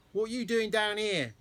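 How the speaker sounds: sharp, cross challenge from the dark; angry voice. A narrator's reading. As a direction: demand it crossly. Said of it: "came an angry voice".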